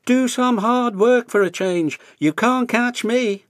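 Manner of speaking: high, loud mocking dare; cheeky little engine. A narrator's reading. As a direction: taunt him and dash off. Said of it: "in his cheeky way".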